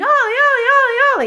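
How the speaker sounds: play-acted frantic, panicked screaming, pitch very high. Retelling a truck coming toward Ollie, reenacting screaming his name. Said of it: "So I start screaming".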